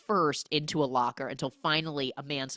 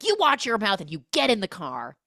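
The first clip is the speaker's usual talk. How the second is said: higher, louder motherly order; stern mock scolding; 4 semitones higher, 5 dB louder than usual. Mother ordering son into the car, lightly mocked scolding. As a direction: scold him with mild mock anger. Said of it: "he's furious with J-Lo".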